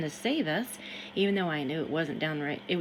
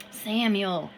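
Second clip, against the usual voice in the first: a mild, half-raised call of the name; loud hiss; 5 dB louder than usual. Acted. Harrison calls Samuel from the river, mildly raised. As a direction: call Samuel with a touch more force. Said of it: "he hissed loudly".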